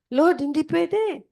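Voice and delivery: high, slow pleading refusal; a pleading no, stretched high; protesting Peter. Acted. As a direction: beg off in disbelief, drawn out.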